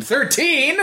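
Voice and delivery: breaks into a laugh on the word; amused, laughing question. Real, not acted. Laughing at the episode number.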